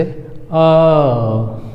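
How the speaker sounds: drawn-out open अ; teacher demo of अ; long a sound. Shown as a demonstration. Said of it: "कैसे?".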